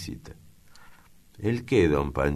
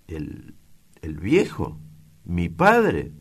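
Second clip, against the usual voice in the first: halting, then a louder ¿Mi padre?; stunned question; 3 semitones higher, 4 dB louder, slower than usual. Acted. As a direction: it hits him slowly, then the louder question bursts out. Son shocked by the news.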